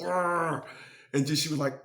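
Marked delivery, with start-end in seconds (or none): 0.0-0.6 playful growl. Retold or imitated. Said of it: "gave her that little".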